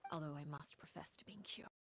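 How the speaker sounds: a teasing, unvoiced whisper; curious whisper. The Knave whispers her curiosity to the travelers. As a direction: lean in and breathe it like a secret.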